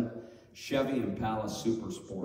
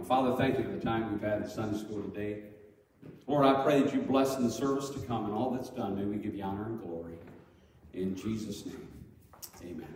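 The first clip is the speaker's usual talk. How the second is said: prayer; 3 semitones lower than usual. Acted. Closing prayer.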